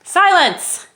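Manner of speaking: loud, sharp royal bark; barked command. Acted. King turtle barking at Mac, loud and sharp. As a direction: silence the turtle like a tyrant king. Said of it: "barked back".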